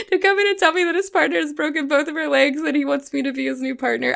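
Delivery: mock meltdown rant. Liz demanding her dream partner, mock meltdown rant. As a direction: reel it off fast in mock hysterics. Quotes Liz's over-the-top meltdown wish.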